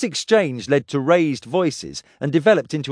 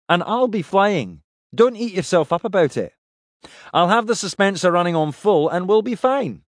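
Pike's voice; 6 semitones higher than usual. Acted. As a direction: reassure him as the captain. Pike reassures Kref.

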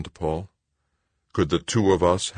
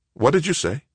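high, stunned disbelief; shocked; 10 semitones higher than usual. Acted. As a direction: ask in shock. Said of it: "His mouth dropped open".

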